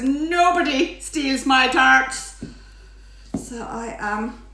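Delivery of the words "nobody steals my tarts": mock outrage. Mock threat after rhyme.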